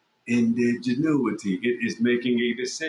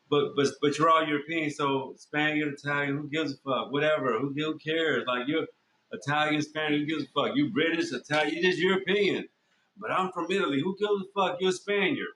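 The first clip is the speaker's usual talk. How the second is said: higher-pitched, brushing off the distinction; mock dismissive; 5 semitones higher than usual. Outsider lumping Europeans together, mock dismissive. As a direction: wave it away in a higher mock-arguing voice.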